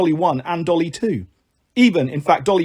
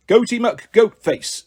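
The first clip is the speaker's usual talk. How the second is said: slow grand; 5 semitones higher, much slower than usual. Acted. Goat announcing his grand name.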